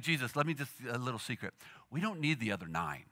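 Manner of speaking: hushed, confiding aside; mock secret whisper. Peter to Jesus, sharing a conspiratorial secret in a hush. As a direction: lean in and tell him low, like a secret.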